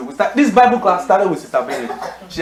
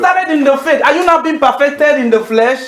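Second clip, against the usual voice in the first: higher-pitched scolding apostle; rebuking Paul; 6 semitones higher than usual. Acted. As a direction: scold the foolish church from the pulpit. Pastor voices Paul rebuking Galatians.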